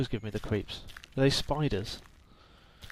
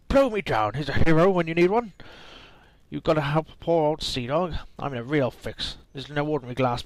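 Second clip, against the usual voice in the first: put-on pirate accent; 4 dB louder than usual. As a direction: sing out like a grateful old sea dog. Reading pirate NPC lines.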